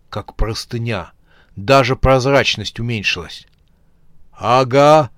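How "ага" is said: stunned. Acted. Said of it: "единственное, что мог произнести".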